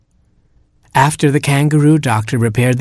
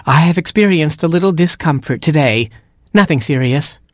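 sly stepsister; 5 semitones higher than usual. Acted. Stepsister feigns composure.

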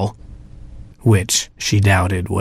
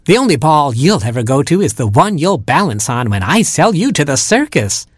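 wicked stepmother; 5 semitones higher than usual. Acted. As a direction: cry out the cruel threat. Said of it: "cried the stepmother".

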